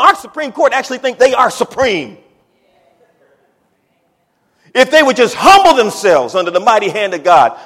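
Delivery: impassioned preaching. Real, not acted. Preacher urging the nation to humble itself, impassioned preaching. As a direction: press the point on the congregation.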